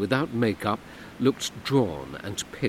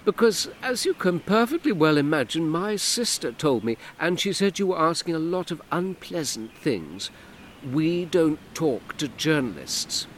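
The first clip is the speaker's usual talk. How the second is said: higher, louder curt refusal; annoyed woman's voice; Hortense, irritated; 8 semitones higher, 3 dB louder than usual. Acted. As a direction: shut the journalist down. Hortense rebuffs journalist.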